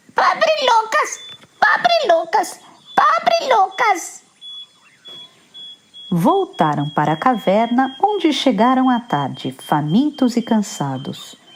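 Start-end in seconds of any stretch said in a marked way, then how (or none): 0.2-4.3 screechy, shrill, very high little squealing voice. Reading a story aloud, a character repeats a line three times: shrill voice. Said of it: "respondeu três vezes com a voz esganiçada".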